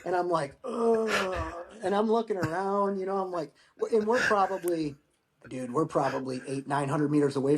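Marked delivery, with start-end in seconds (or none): 0.6-1.5 higher-pitched imitated groan; drawn-out "ugh". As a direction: groan it out in mock reaction. Retelling his reaction to the beer.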